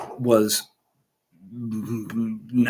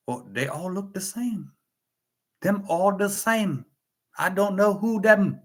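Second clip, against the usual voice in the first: lightly put-on Asian accent, higher pitch; mock Asian accent; 7 semitones higher than usual. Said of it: "that's how my kids mom talk".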